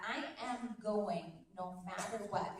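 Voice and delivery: slow, deliberate declaration; resolve. Shown as a demonstration. Coach contrasting resolve with mere hoping, firm and slow. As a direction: say it as a settled decision. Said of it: "Do you hear that difference in my voice?".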